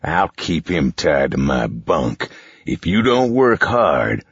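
slow, cold, cruel villain; cruel villain taunt. Acted. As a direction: taunt the kids slowly. Boss voice.

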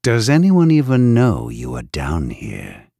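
taunting. Acted. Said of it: "the warden taunted".

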